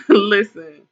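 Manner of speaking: saying listen through a real laugh. Real, not acted. Streamer laughing at a scary chat comment, laughing. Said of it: "I'm laughing".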